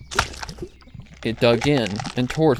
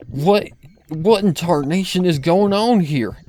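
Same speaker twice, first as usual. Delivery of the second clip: higher, louder stammering disbelief; stunned; 7 semitones higher, 6 dB louder than usual. Acted. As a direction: stammer it out, aghast. Applejack stunned finding herself.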